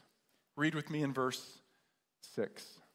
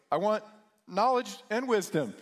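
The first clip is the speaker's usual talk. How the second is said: higher and louder, breathless; gasping answer; 6 semitones higher, 6 dB louder than usual. Retold or imitated. Young man surfacing from the water, breathless. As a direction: gulp it out after being held under.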